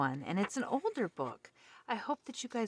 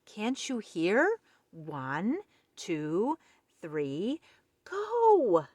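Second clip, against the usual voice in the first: shouted; 3 semitones higher, 5 dB louder, much slower than usual. Acted. Otter shouting the count at frozen Pig, loud. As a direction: bellow the count, punch the final go. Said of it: "shouted Otter".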